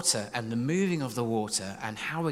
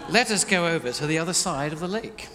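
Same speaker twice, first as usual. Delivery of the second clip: put-on, very British accent; 3 semitones higher, 3 dB louder than usual. Jesus addressing his disciples, very British voice. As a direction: say it in proper British English. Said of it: "in a very British voice".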